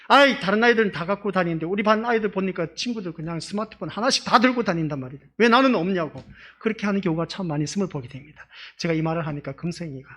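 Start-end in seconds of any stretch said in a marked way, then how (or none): 0.1-6.2 a hint of a complaining kid, a bit louder; whiny child. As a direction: whine like a kid who wants a phone. Child begging for smartphone. (살짝 흉내 낸 칭얼대는 아이)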